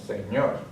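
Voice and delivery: "señor" stressed on final ñor; stress on last syllable. Shown as a demonstration. Teacher demonstrates final-syllable stress for learners, "señor" stressed on ñor. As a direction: put the weight on the end of "señor": se-ÑOR. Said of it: "stress is going to be on the last syllable".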